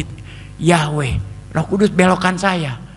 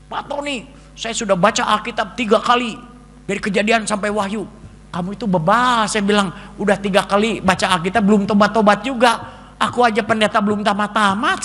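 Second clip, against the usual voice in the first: higher, lively retold debate; lightly raised voices; 5 semitones higher than usual. Preacher retells debate with visitor, slightly higher voices. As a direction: toss the lines back and forth.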